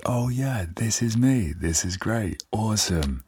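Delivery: high, delighted "oh yeah, this is me"; excited self-talk. Retold or imitated. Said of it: "and I'm like".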